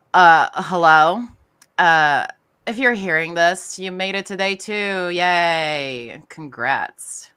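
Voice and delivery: loud, slow bored phone message; over it customer service voice; disdainful phone guy. Shown as a demonstration. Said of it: "I actually brought up some lines".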